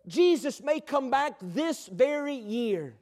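slow, measured imitation of a preacher; lightly acted revival preacher, drawn-out words; preacher retold. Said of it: "the preacher started preaching on Jesus coming back".

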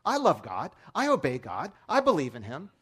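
imitating a proud little boy declaring it; hammed-up defiant kid. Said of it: "he's so defiant".

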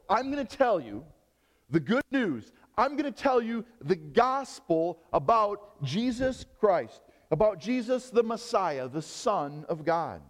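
slow, deliberate announcement as the gospel writer; emphatic proclamation. Acted. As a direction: proclaim it openly, stretching the key words. Voicing Mark announcing his message openly.

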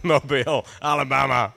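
MOBILE as mo-BEEL, like the city; low-pitched "mo-BEEL, Alabama"; American place name. Shown as a demonstration. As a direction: say Mobile rhyming with "feel". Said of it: "I would say mobile".

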